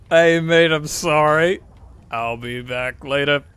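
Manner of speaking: a loud, hammed-up Australian crow apologising; friendly Aussie crow saying sorry, mate. Jokingly voicing a crow in an Australian accent, loud. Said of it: "I don't know why I made the crow Australian".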